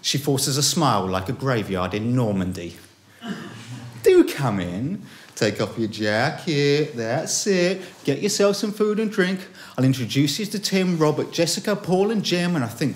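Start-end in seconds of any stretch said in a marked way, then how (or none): 4.0-12.5 high, gushing party hostess. Retold or imitated. Hostess ushering the narrator into her party, high and gushing. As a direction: greet the guest in a bright, fluttering hostess voice. Hostess voiced, welcoming guests.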